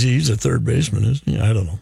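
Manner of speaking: talking through hiccups; words broken by hiccups. Real, not acted. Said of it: "I was laughing at Patrick Hiccups".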